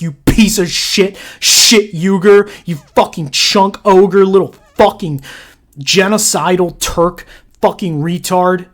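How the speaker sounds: insult tirade. Real, not acted.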